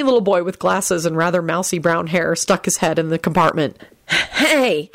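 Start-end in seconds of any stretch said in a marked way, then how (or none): 4.1-4.9 put-on hesitant, higher-pitched boy; nervous. A narrator's reading. Skinny boy sticks his head in the compartment, nervous. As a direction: greet them timidly and unsurely. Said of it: "he said nervously".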